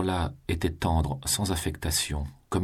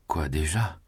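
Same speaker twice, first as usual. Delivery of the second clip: startled whisper. Acted. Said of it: "dit Julien en ouvrant un œil hagard".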